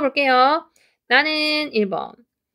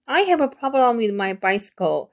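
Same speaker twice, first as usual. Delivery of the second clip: slow model reading; much slower than usual. Shown as a demonstration. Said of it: "전체적으로".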